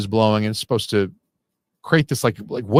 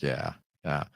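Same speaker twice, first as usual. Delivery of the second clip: imitating Cooper's laugh; 8 semitones lower, 11 dB quieter than usual. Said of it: "his character says ... and then he laughs".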